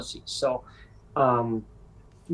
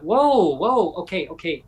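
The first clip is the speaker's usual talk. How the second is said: startled whoa; 4 semitones higher than usual. Retold or imitated. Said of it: "And I went".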